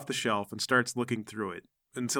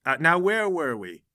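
high, lilting lecturer's voice; enthused librarian; 6 semitones higher, 4 dB louder than usual. Acted. Librarian turns back to her guests, eagerly resuming high-pitched.

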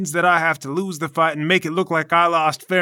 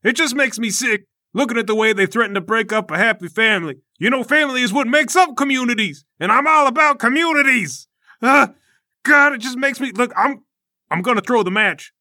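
Obliterator voice; 4 semitones higher than usual. Acted. Obliterator rants about family.

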